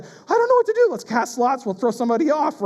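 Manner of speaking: hammed-up helplessness; frantic disciples. Peter and the others in the boat, hammed-up panic. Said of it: "they're over here like".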